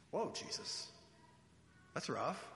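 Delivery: breathless shocked whisper; whispered whoa. Real, not acted. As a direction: gasp it under your breath, mock-shocked. Preacher reacts to rude-sounding words.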